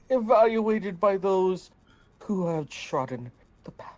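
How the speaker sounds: grand, dramatic recital; theatrical voice. Acted. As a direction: read it like a stage diva. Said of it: "I had to do theatrical voice".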